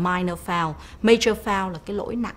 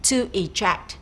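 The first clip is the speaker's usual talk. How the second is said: "eject" stressed on JECT; stress on second syllable; slower than usual. Shown as a demonstration. Teacher introducing a verb, eject stressed on JECT. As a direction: say "eject" with the weight on its last syllable. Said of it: "The stress is on the second syllable".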